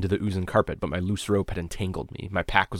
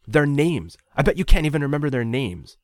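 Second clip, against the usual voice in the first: bluffing challenge; 8 semitones higher, 8 dB louder than usual. A narrator's reading. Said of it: "I was bluffing".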